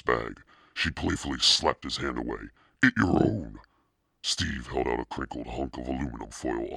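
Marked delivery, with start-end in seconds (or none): 2.8-3.6 playful scolding. Acted. Playful girl swatting chips away.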